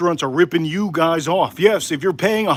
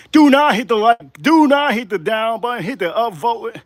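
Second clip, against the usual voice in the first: emphatic plea; 4 semitones higher than usual. Real, not acted. Urgent plea to viewers.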